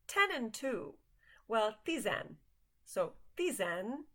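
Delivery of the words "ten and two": higher-pitched Chicago accent. Shown as a demonstration. Teacher comparing English with Hungarian twelve, Chicago accent. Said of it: "say it in a Chicago accent".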